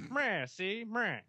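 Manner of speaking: lightly voiced movie gangster; hint of a wiseguy lawman with a tagged-on sneer; old-time gangster. Warning seat belt lawbreakers about coppers, mock gangster voice.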